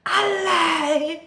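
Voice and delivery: high, loud cry of A lie!; disbelief. Shown as a demonstration. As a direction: exclaim it in disbelief. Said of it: "this is usually an expression".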